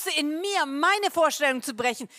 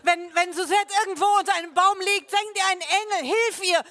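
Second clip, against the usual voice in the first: retold prayer; 3 semitones higher than usual. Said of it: "Die haben gebetet".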